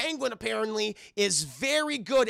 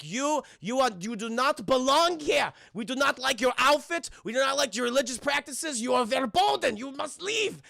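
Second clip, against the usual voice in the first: higher, loud, emphatic mock-villager voice; stern townsfolk; 5 semitones higher, 4 dB louder than usual. Townspeople expelling the red-suited stranger, stern villager voice. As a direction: pronounce each rejection firmly and stiffly.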